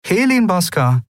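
high-pitched, astonished echo of the name; stunned disbelief. A narrator's reading. Woman questions sister's choice of husband, incredulous. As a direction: repeat the name as if unbelievable. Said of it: "Lien blinzelte fassungslos".

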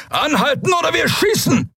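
high, full-voiced shouted warning; bellowed threat. A narrator's reading. Captain threatening to fire on speeding vehicle, bellowed warning. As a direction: roar it as a last warning. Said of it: "brüllte ihnen ein Hauptmann entgegen".

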